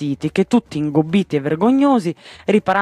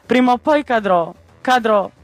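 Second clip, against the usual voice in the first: fearful wail; 6 semitones higher, 3 dB louder than usual. Acted. Flying man fears falling.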